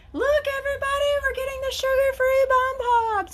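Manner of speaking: high, bright mock announcement to the family; excited announcement. Mom telling the family about sugar-free treats, high excited announcing. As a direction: squeal it out like big news. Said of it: "and I was like".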